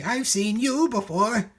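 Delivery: high, slow, drawn-out bird voice; sly lazy bird. A narrator's reading. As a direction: savour each word like a sly bird. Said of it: "gasped Macy".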